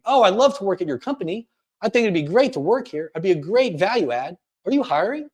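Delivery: insecure, high-pitched uptalk; going up at sentence ends. Shown as a demonstration. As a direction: lift every ending like a question. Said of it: "we always go up at the end of our sentences".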